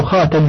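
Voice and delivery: خاتم with a after ت; fatha on ta. Shown as a demonstration. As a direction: say خاتم as khatam. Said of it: "بفتح التاء".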